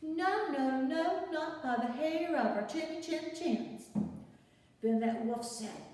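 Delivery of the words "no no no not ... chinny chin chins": higher sing-song refusal; pigs refusing. Acted. Little pigs refusing the wolf at the door, sing-song. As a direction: chant it back at the wolf.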